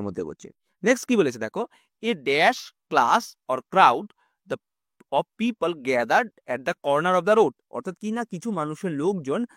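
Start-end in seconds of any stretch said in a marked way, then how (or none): 2.0-7.5 reads the exercise word by word, very slowly; slow exercise reading. Acted. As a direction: dictate the question to students. Reads exercise sentence aloud. (ধীরে ধীরে প্রশ্ন পড়ে শোনানো)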